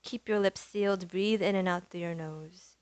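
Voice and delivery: soft, unhurried yoga teacher voice; yoga breathing guidance. Acted. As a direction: guide them gently into the breath with long pauses. Leads breathing and centering practice.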